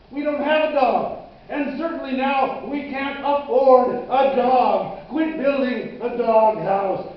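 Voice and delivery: agitated, incredulous parental protest; exasperated father. Acted. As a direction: tell off your son in disbelief. Father scolds son building dog house.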